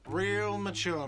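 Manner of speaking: loud, slow, whiny jeer; whiny shout. Acted. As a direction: sneer it out like a sulky brat. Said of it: "a whiny voice shouts".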